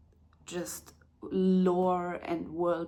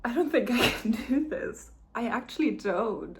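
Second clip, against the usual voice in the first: near tears; 3 semitones higher, 5 dB louder than usual. Real, not acted. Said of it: "look at me already crying".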